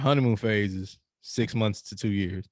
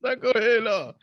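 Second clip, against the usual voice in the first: insisting; 7 semitones higher than usual. Real, not acted. Yielding the floor excitedly.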